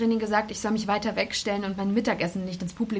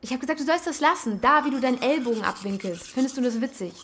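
irritated; 3 semitones higher than usual. Acted. Irritated confrontation over mimicking.

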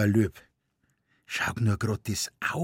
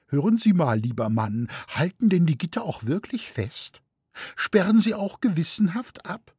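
put-on high, fretful elderly lady; anxious old lady; 8 semitones higher than usual. A narrator's reading. Elderly lady asking the keeper about the bars, high and fretful. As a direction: fuss at the keeper nervously.

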